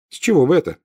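high, surprised question. A narrator's reading. Hermione questions Ron's guess about Malfoy, surprised. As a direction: ask in lifted puzzlement. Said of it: "удивилась Гермиона".

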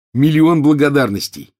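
loud, high burst of thanks; grateful exclamation. A narrator's reading. Ron gets his corrected essay back, exclaims gratefully. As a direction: exclaim it, voice leaping up. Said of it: "воскликнул Рон".

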